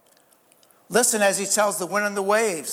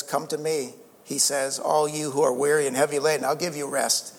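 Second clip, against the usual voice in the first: tender invitation; 4 semitones lower than usual. Retold or imitated. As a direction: draw the weary in gently. Quoting Jesus's invitation.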